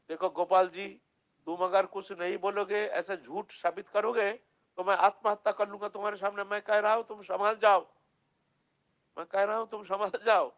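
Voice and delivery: pleading threat. Acted. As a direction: push the idol hard, half begging and half warning.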